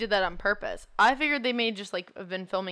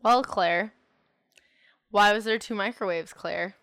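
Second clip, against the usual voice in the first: mock accusing; 7 dB louder than usual. Mock confronting the set decorator.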